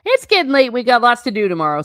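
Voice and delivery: loud, quick change of subject; said loudly. A narrator's reading. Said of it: "said Hagrid loudly".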